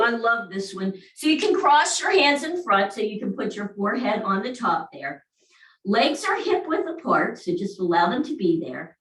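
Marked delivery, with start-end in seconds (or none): none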